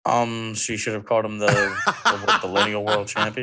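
breaking into laughter mid-line; laughing through it. Real, not acted. Cohost repeating his running joke, laughing.

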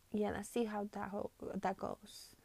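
tripping over the words; stumbling stutter mid-sentence. Real, not acted. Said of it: "I'm stuttering so much".

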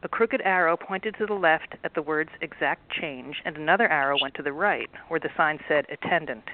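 steady storybook reading voice; story narration. A narrator's reading. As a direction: read the chapter like a bedtime story. Author reads book aloud.

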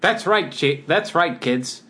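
put-on high, bright kids' ad opener; hard sell ad. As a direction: pitch it to the kids. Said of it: "pretending I'm in a commercial".

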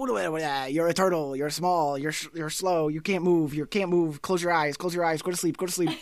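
fast hypnotist patter; auctioneer voice. Retold or imitated. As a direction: rattle it off like an auctioneer. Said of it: "like an auctioneer".

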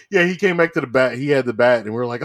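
ordinary delivery

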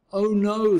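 high, loud storybook alarm; Sally's alarmed outburst, read aloud. A narrator's reading.

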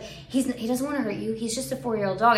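softly imitated babysitter; hushed, reassuring retelling of the sitter; babysitter's soothing voice. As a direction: soothe an upset little child. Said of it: "She wasn't talking quite like this".

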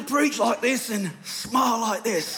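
mock smiling preacher; Joel Osteen. Shown as a demonstration. Pastor demonstrating the smile he was asked for, mock smiley preaching. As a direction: talk through a put-on big smile. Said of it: "if you could smile a lot like Joel Osteen".

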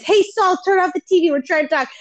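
a slightly insistent call to a friend, imitated; mild Ruben. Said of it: "Ruben says".

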